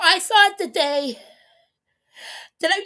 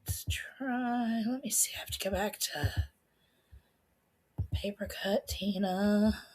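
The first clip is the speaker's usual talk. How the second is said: soft unvoiced whisper to herself; 5 semitones lower, 10 dB quieter than usual. Real, not acted. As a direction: whisper it under your breath. Quietly checking the video list.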